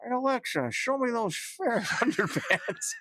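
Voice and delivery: high silly voice breaking into laughter; imitating Alexa user. Co-host as customer asking for ferret underpants, laughing imitation. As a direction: push the mock customer high, then crack up. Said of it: "people in the shop asking".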